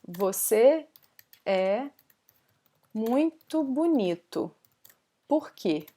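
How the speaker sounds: pauses after each chunk; word by word. Shown as a demonstration. Teacher reviewing a learner's sentence, word by word. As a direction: read it out slowly in separate pieces.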